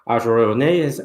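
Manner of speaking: lightly exaggerated Irish accent, veering Northern; attempted Irish accent. Shown as a demonstration. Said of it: "that's a bit more Northern Irish".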